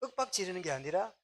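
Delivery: ordinary delivery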